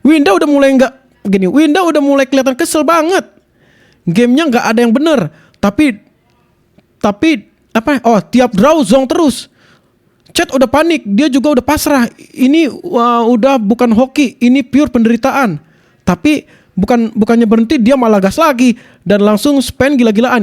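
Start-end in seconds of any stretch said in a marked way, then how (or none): 1.5-5.3 lively short-video narrator read; voice-over demo. Shown as a demonstration. Streamer showing how to narrate Winda's annoyance, voice-over demo. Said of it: "Contoh voice over gini nih". 8.2-20.4 animated clip-channel narration; voice-over demo. Shown as a demonstration. Streamer narrating a gacha disaster as an example, voice-over demo. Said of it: "Contoh voice over gini nih".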